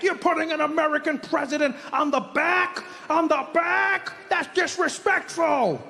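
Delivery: high, scandalized mock outrage; mock furious. Imitating Americans offended about the back, mock outrage. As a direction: stretch the protest out, high and appalled. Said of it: "People were furious".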